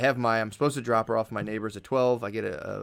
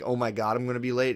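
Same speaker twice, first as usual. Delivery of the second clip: a touch of panic on "Oh my God, I'm gonna be late"; mock worry. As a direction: act out fretting about being late, mildly. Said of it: "rather than being".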